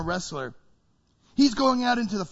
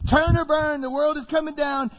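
higher, louder fire-and-brimstone call; yelling prophet; 6 semitones higher, 3 dB louder than usual. Acted. John the Baptist yelling at the crowd, a loud prophet's cry. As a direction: warn the crowd like a street prophet. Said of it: "He is yelling".

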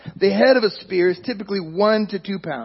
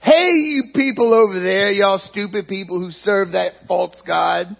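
taunting giant; slower than usual. Retold or imitated. Goliath taunting the Israelites across the valley, mocking. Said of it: "and says".

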